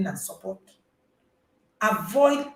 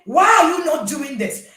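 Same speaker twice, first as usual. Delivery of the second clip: non-judging question; 7 semitones higher, 7 dB louder than usual. Shown as a demonstration. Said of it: "I'm not gonna be judging you".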